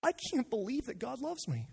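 a churchgoer stunned that God loves them; stunned disbelief. Retold or imitated. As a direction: blurt it out, overwhelmed by the news. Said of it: "and they think".

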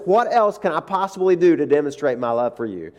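a hint of God gently rebuking; God's gentle, loving rebuke, lightly played; lightly voiced God. God gently rebuking the worried pastor, mildly voiced. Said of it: "it's like God says".

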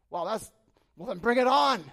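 acted loud, high battle cry; newfound boldness. Servant on suddenly seeing heaven's armies, acted bold shout. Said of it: "this man who was quaking in his boots".

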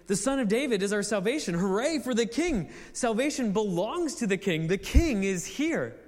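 a crowd hailing its king; exclamation of praise. Shown as a demonstration. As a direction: proclaim the King with joy. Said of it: "It's like an exclamation".

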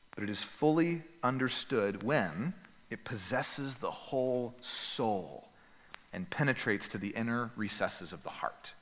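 measured recitation that settles into a hush; solemn quote reading. Acted. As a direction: let the quoted words land slowly, with long pauses. Reads Calvin quotation aloud.

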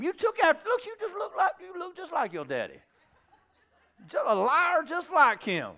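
high-pitched mocking jab; hammed-up playground taunt; taunting insult. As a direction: rub it in with a high, teasing voice. Acted insult in quarrel.

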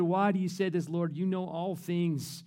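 exasperated. Retold or imitated. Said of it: "he's exasperated".

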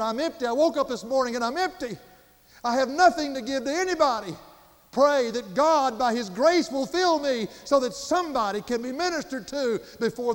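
high, loud, urgent plea; retold desperation. Visiting preacher begging Brother Wayne for prayer, desperate. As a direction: plead as a preacher who has run empty. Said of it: "And the desperation in his voice".

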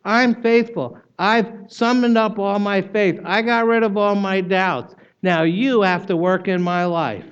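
lightly mock the proud believer's boast; smug boast. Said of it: "world's religions start by saying".

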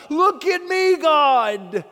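loud, high boast to God; the Pharisee showing off to God, loud and high; proud boast. Acted. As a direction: puff up and crow at heaven.

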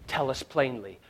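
quiet, level demand; hushed quote. Retold or imitated. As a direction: murmur the demand under the breath. Same quote said twice.

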